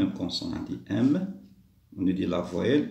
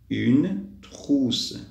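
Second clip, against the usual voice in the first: drawn-out "une", pause, long "trousse"; slow word model; 3 semitones higher, 4 dB louder than usual. Shown as a demonstration. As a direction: stretch each word for learners. Teacher models the word slowly. (mots étirés et séparés)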